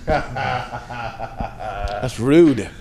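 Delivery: talking with gum in mouth; chewing gum. Real, not acted. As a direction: chew gum while you talk. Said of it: "and I have gum in my mouth".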